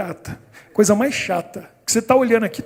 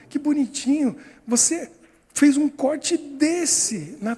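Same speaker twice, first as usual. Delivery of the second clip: higher, lightly imitated voice of marvelling; admiring nurse; 6 semitones higher than usual. Nurse praising boy for not crying, admiring. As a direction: marvel at a little child, lightly acted.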